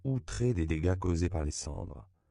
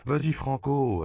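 sharp, much higher and louder order to her brother; urgent command; 9 semitones higher, 6 dB louder than usual. A narrator's reading. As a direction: push him to act now, loudly. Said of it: "intima Lupe à son frère".

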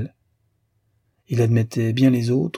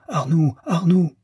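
slow, higher-pitched nightmare cry; mock howl; 7 semitones higher than usual. A narrator's reading. Deslauriers feigns a nightmare to wake his companion, mock howling. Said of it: "il réveillait son compagnon en hurlant".

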